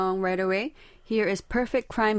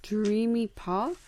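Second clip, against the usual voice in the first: puzzled question; 3 semitones higher, 4 dB quieter, slower than usual. Real, not acted. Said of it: "Is that a genre?".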